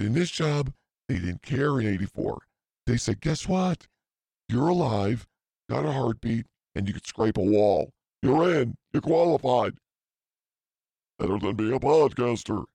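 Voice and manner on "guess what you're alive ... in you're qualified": a cheery boss waving anyone in; mock hiring boss. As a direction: sell the job like a careless boss.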